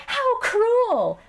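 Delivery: very high, hammed-up outcry; melodramatic princess. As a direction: exclaim like a wronged princess. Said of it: "a princess".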